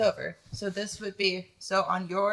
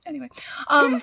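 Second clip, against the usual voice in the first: whisper; 6 semitones higher, faster than usual. Real, not acted. Embarrassed aside.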